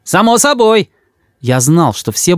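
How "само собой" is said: eager. A narrator's reading. Boy answers eagerly.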